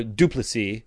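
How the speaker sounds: "Duplessis" as DOO-pluh-see; mispronounced surname. Shown as a demonstration. Listing wrong versions of his name, short middle vowel. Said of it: "or Duplessis".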